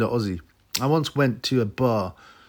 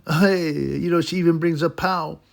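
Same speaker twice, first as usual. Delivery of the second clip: lightly raised, gushing mock reviewer voice; 7 semitones higher, 3 dB louder than usual. Vlogger mocking the reviewer's gushing praise, lightly raised. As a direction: gush over it like a smitten fan, a bit higher. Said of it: "they review the entire".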